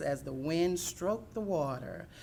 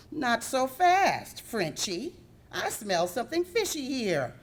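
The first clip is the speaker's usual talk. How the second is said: puppy calling out a suspect goose; commanding stop; 7 semitones higher, 3 dB louder than usual. Acted. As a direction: halt him with a sly threat. Sassy stops fleeing goose.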